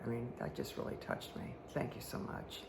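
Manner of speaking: soft, sincere whispered thank you; heartfelt hushed thanks. Real, not acted. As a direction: drop almost to a whisper, touched. Thanking a viewer for her card.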